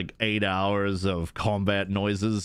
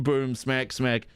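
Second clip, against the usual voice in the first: mock combat noises; slower than usual. Shown as a demonstration. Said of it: "all they're gonna hear is".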